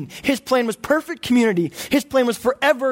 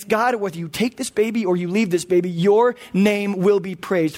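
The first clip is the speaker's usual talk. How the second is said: surrendering prayer. Retold or imitated. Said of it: "I have to say a prayer".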